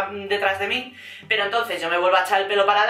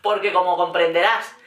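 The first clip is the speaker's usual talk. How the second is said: calm and composed; 4 semitones lower than usual. Retold or imitated. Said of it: "muy sosegada".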